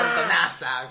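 put-on loud drunken call-out; shouting. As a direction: yell the pet insult. Quoting drunk insult to aunt.

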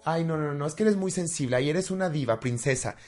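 a put-upon sneer at a crybaby; mocking dismissal. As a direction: mimic someone rolling their eyes at tears. Voicing people who dismiss crying.

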